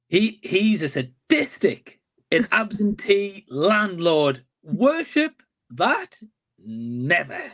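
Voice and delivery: slow, drawn-out Pacino growl rising on the question; lightly voiced Al Pacino, slow and deliberate; a hint of Pacino menace, slowed right down; Al Pacino impression. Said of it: "your best Al Pacino voice possible".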